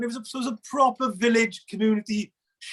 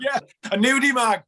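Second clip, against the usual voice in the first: shouted reply; 3 semitones higher, 3 dB louder than usual. Retold or imitated. Boys answering in the tunnels.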